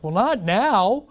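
reluctant preacher. Retold or imitated. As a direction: drag it out, putting God off. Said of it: "he's like".

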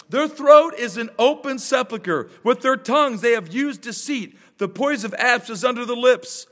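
measured, solemn Bible reading; scripture reading. Acted. Reads Romans aloud.

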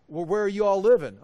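half-acted challenge from the congregation; mock questioner. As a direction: toss back the question in a mock voice. Acting out the people's excuse.

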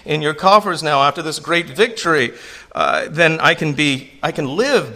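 high, pleading, hammed-up begging; mock pleading king's subject. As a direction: beg the king for your life, pitched high. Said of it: "The implication is".

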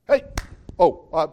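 startled snap-to. Retold or imitated. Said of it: "you see me go".

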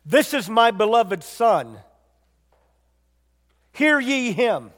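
slow, solemn proclamation of the heavenly voice. Retold or imitated. Preacher voicing God from the cloud, solemn and slow.

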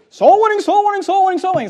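high, sing-song mock of a bored complainer; mocking the critics. Preacher mocking critics who are tired of soul winning, in a high sneering sing-song. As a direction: parrot the critics' groan with scorn. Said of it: "oh, talking about soul winning again?".

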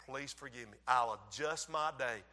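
low, hushed murmur in her ear; quiet, tender retold apology; imitated whispered apology. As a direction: apologize very softly to your wife. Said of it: "I whispered in her ear".

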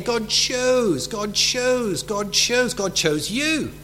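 "chose" hit hard and drawn out in each repetition; stress on CHOSE. Shown as a demonstration. Preacher recalling the verses for the congregation, stress on "chose". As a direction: lean on the word "chose" every time it comes. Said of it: "stressed the word chose".

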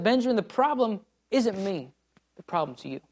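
solemn divine rebuke fading down; voice of God, dropping. Retold or imitated. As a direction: let it fall to a hush on you. God's voice, dropping to quiet.

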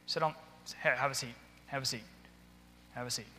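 quiet, low offer of a seat; calm invitation. Shown as a demonstration. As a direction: softly usher them into a chair. Shows calmly seating an agitated person.

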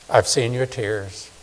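slow, soft tender assurance. Shown as a demonstration. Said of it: "I like this".

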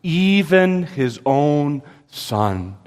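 very slow, "even" drawn out and weighted; slow, deliberate emphasis on "even"; stress on EVEN. Shown as a demonstration. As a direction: underline "even his own Son" with your voice. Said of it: "all the emphasis is being laid right on those words".

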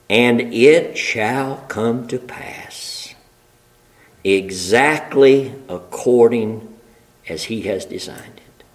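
a sermon line sinking to a whisper; hushed whisper. Acted. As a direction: drop to a slow whisper at the end. Preacher hushes the decree to a whisper.

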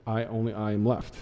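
a soft, low, mocking echo of his boast. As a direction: repeat his boast quietly to expose it. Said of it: "what is he getting wrong".

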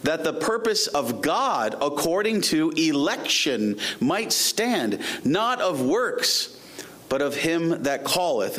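measured, emphatic Bible reading; scripture reading. Acted. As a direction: read the verse out deliberately to the congregation. Reads scripture aloud.

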